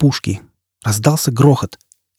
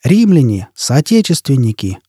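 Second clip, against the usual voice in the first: drawn-out orator's address; heartfelt oration; slower than usual. A narrator's reading. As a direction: open a grand speech with feeling. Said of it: "проникновенно обозвал Формайл".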